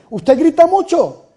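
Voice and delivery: high, loud imitation of nagging critics; mock scolding critics. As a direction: scold the priest for being too loud. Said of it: "a mí me dicen cada ratico".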